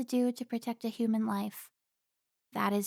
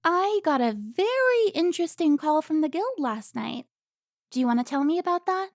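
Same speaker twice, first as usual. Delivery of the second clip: loud, higher, rising anger; furious rant; 5 semitones higher, 8 dB louder than usual. Acted. Carmen berating Alfonso for his betrayal, loud and furious. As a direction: tear into him.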